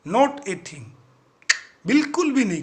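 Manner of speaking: loud, plain denial; loud answer. Acted. Sergeant answers the captain loudly, blurting it out. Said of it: "वो थोड़ा जोर से बोलता है".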